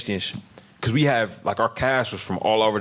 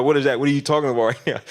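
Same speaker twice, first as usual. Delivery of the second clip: baffled castmate; 6 semitones higher, faster than usual. Retold or imitated. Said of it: "Like, you know".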